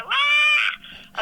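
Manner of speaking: high, delighted squeal of surprise; thrilled shriek; excited gasp. Retold or imitated. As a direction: squeal like you just spotted a friend. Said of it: "because I go".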